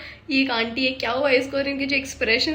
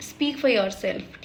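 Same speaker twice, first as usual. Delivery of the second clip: slow, soft retort; 4 semitones lower, 4 dB quieter, much slower than usual. Retold or imitated. Quoting the husband's line, slow retort. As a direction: drawl it out slowly.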